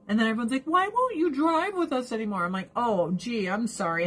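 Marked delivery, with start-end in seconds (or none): 0.7-2.4 higher-pitched imitation of whining friends; put-on plaintive whine; mock plaintive friends. Mimics friends' plaintive question. 2.7-4.1 mock-sorry, understated and dry; sarcastic apology. Sarcastic reply to friends.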